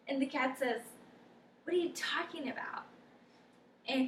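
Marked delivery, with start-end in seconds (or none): 1.6-2.9 a whispered, puzzled cat; baffled whisper. Acted. Cat puzzled by the dog's question, whispered.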